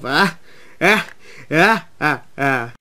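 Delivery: staccato, spaced mock laugh; evil laugh attempt. A narrator's reading. Billy practises with Duncan, evil laugh. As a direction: try out a villain's laugh. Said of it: "that's a nice evil laugh".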